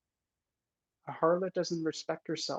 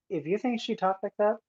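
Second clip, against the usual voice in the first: incredulous; 6 semitones higher than usual. Real, not acted. Scoffing at impostor's way of talking.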